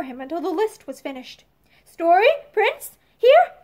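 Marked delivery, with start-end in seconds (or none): 1.8-3.5 slow, then a high loud here; calling out. Acted. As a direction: call out to the coach across the room. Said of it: "called the latter".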